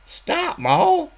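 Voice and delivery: very high cry to his wife; pleading Snuffy. Acted. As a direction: beg her to stop.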